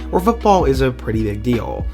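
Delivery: ordinary delivery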